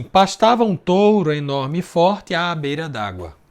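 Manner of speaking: measured recitation of a poem line; reading the verse. Shown as a demonstration. Teacher reciting the verse to students, measured and clear. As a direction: read the verse out clearly for the class. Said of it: "Então começa assim".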